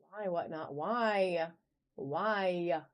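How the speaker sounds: playful, lightly put-on toddler whine; whiny three-year-old. Seller complaining to Whatnot about the lag, mock whiny three-year-old. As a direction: draw out each why like a mock-whining little kid. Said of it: "That was my best whiny three-year-old voice".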